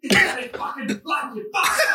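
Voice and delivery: high, loud mock Scottish shout; angry Scottish accent. Angry drinker confronts him over a stolen drink, hammed-up Scottish accent. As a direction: imitate a furious, shouting Scotsman. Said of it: "saying to me in the Scottish accent".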